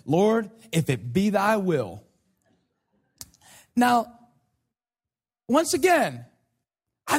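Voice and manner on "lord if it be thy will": slow, solemn mock prayer; praying Baptist. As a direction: lightly imitate a pious churchgoer praying. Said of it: "they'll say".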